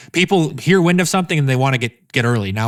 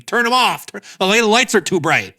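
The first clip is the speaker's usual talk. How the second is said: higher-pitched mock outburst; lightly imitated meme complaint, pitched up; Donald Trump meme; 7 semitones higher than usual. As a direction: call it out like a mock-outraged meme quote. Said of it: "It's like that Trump meme".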